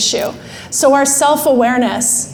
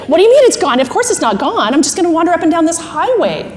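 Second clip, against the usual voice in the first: flustered, rapid-fire denial; emotional brain spinning; 3 semitones higher, faster than usual. Acted. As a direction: protest in comic disbelief. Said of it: "emotional brain does this really fast spinning".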